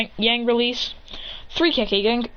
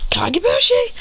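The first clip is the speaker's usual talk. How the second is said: high anime technique call; attack call; 13 semitones higher, 4 dB louder than usual. Acted. Hero summoning clones against parents, high move call. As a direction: call the jutsu name, pitched way up.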